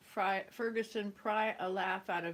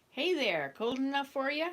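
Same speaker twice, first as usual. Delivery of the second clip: louder Canadian hoser voice with a rising question; 5 semitones higher, 5 dB louder than usual. Retold or imitated. Atwood mimics a hoser asking about the weather, loud hoser voice. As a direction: ham up a cheery Canadian hoser. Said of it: "perfect imitation of a Canadian hoser".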